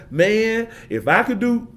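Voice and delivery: wistful adult. Retold or imitated. Adults hearing his story, wistfully envious. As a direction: sigh it like a grown-up who missed out. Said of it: "I talk to adults".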